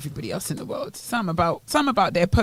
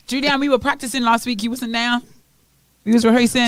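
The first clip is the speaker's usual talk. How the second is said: lightly put-on northern English accent, getting louder; 5 semitones higher, 4 dB louder than usual. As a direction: tease her in a mild northern English accent. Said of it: "first time I've heard you with that accent".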